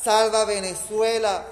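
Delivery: loud insistent litany; fervent pleading. Real, not acted. (súplica ferviente y fuerte)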